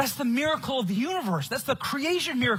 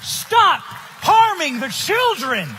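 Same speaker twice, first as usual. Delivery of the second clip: forceful plea; 5 semitones higher, 4 dB louder, much slower than usual. Real, not acted. Preaching against harming children.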